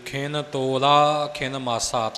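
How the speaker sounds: slow model reading, ਤੋਲਾ with a long o and single l; teacher slowly modelling ਤੋਲਾ with an undoubled l; correct pronunciation model. Shown as a demonstration. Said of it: "ਤੋਲਾ ਨਹੀਂ ਕਹਿਣਾ".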